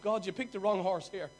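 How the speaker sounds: loud protest. Retold or imitated. Gideon protesting to God that he's the wrong choice, loud. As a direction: push back hard, you're the wrong pick.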